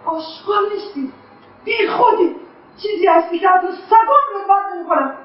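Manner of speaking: mother berating her son in anger; furious tirade. Acted. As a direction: tear into him with contempt.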